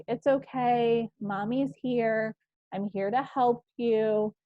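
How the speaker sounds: put-on slow, gentle reassurance to a toddler; reassuring. Shown as a demonstration. Mother comforting her upset toddler, slow and gentle. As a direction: soothe a little one, unhurried. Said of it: "R is for reassuring your child".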